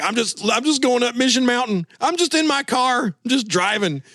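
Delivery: high, showy phone-bragging voice; proud to be driving on a car phone; early cell phone caller. Retold or imitated. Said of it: "I remember being like that too".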